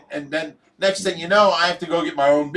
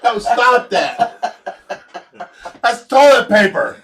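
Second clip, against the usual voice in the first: loud, high protest through laughter; real laughing indignation, pitched up; laughing outrage; 5 semitones higher, 7 dB louder than usual. Real, not acted. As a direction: cry out at a prank while cracking up. Pranked with toilet roll by friends.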